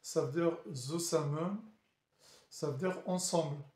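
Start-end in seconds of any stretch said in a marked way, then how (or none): 0.7-1.6 French-accented German "zusammen"; apologetic amateur German pronunciation; poor German accent. Shown as a demonstration. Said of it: "désolé de, de, de, de mon accent allemand".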